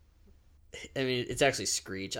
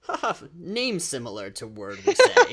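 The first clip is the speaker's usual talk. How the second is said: high, loud put-on laugh and remark; hammed-up cluelessness; mock clueless reaction; 6 semitones higher, 7 dB louder than usual. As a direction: play up an oblivious fake laugh, pitched high. Acts out own clueless laugh.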